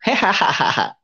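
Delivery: a short scornful laugh, pitched high; sneering chuckle; mocking laugh. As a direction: laugh at him from the doorway. Neighbour laughing at blind speaker.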